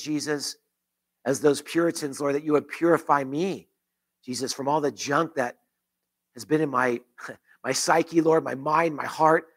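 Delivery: earnest spoken prayer, pleading at moments; closing prayer voiced over the church; pastoral prayer. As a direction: pray it aloud for the congregation.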